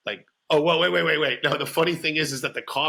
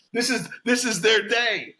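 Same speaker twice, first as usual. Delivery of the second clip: high mock wife; 7 semitones higher than usual. Continuing wife voice.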